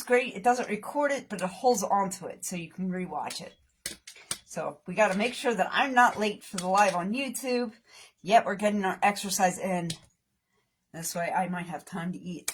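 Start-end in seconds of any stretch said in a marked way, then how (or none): none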